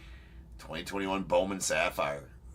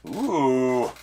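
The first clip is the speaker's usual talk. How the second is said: high, loud whoops of delight; excited shout; 5 semitones higher, 10 dB louder, much slower than usual. Real, not acted. Host cheering Craig's reveal with loud whoops. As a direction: cheer the big hit.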